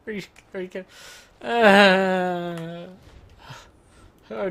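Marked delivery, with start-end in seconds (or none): 1.5-2.9 long, loud, drawn-out groan. Real, not acted. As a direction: groan it out in dismay. Groan during the fight.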